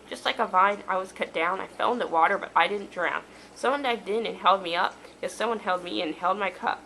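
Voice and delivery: measured, rhyming recitation; poem reading. Real, not acted. Poet reading a poem about lost friendship, measured recitation. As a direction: read your verse with an even lilt. Reads poem written as character.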